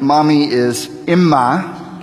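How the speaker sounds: Imma said slowly, EE-muh, nasal start; teaching a word to repeat; Aramaic Imma. Shown as a demonstration. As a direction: model the word Imma for the congregation. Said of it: "Can you say that?".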